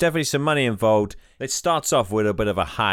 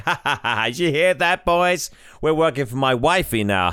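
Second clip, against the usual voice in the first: sarcastic laugh; 5 semitones higher than usual. Acted. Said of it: "they all laugh sarcastically".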